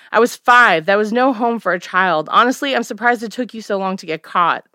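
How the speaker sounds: firm, bitter daughter; cold anger. Acted. Daughter confronts her mother.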